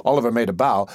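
plain reading voice

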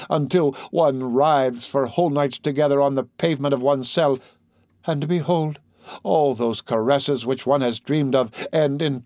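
impassioned, tormented priest pleading; a priest begging in torment; anguished priest. Acted. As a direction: pour out a desperate forbidden love. Priest's anguished plea to girl.

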